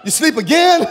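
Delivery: can't believe they're asleep again; incredulous. Acted. Jesus finding the disciples asleep again, incredulous and loud.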